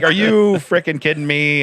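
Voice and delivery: half-hearted angry yell; retold mad scream. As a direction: replay being mad, slowly, without really screaming. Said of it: "I'm screaming, you know, I'm, I'm so mad".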